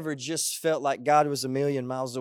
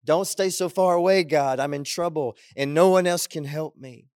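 emphatic mock plea for help; urgent plea; 4 dB louder than usual. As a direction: plead with God, pushing the first words. Acts out David's plea to God.

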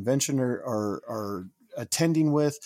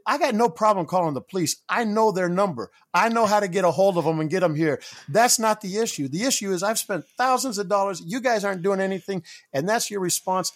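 retold angry rant; 6 semitones higher than usual. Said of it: "I kinda lost it at that point".

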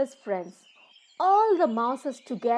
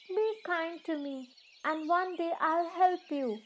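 little mouse; 6 semitones higher than usual. Acted. Mouse asks the lion for kindness, pleading. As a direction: plead gently in a tiny high voice. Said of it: "said the mouse".

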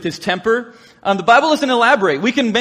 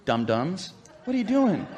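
mock scolding; 2 semitones lower, 9 dB quieter than usual. A lightly voiced scold of the foolish disciples. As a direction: tut at them like silly kids. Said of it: "We can click our tongue".

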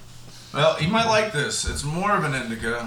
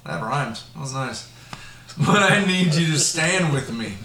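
Joe Biden voice. Acted. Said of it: "I was trying to sound like Joe Biden".

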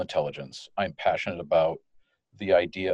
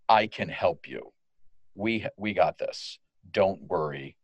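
slow, calm promise of help; reassuring agent; 3 semitones lower, slower than usual. Pretend. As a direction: settle the caller down gently. Agent reassuring angry caller.

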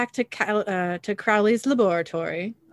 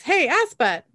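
higher, louder cheeky insult; defiant taunt; 8 semitones higher, 5 dB louder than usual. Acted. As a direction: fling the insult with gusto. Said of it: "Cass says".

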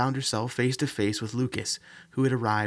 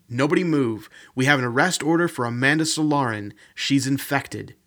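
police command; 3 semitones higher, 5 dB louder than usual. Acted. Police officer raids the center.

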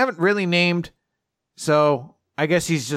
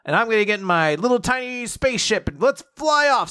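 eager heroine; 8 semitones higher than usual. Retold or imitated. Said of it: "Rebecca's like".

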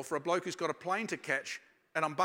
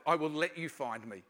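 savouring the verse; 3 semitones lower than usual. Shown as a demonstration. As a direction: repeat it tenderly, as if delighted by it. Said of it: "I love that".

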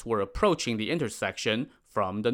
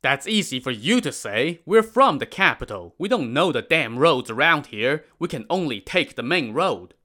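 louder, higher scornful complaint; scoffing merchants; 4 semitones higher, 4 dB louder than usual. Acted. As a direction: scoff and grumble at them. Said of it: "The merchants scoffed".

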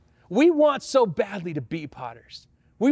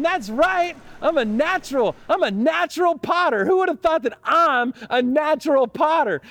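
proud boast; 5 semitones higher than usual. Retold or imitated. Pastor retelling his boast at the pottery wheel, gleeful and high. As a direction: crow about being a natural.

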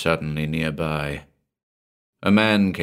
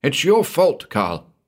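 accusing; 8 semitones higher, 3 dB louder than usual. Acted. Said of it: "he accused".

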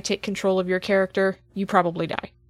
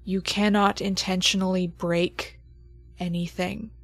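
game master scene setting. Acted. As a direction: hand down the creature's judgement gravely. GM narrates the creature's judgement.

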